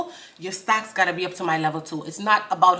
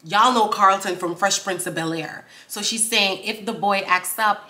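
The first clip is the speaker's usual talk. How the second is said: normal talking voice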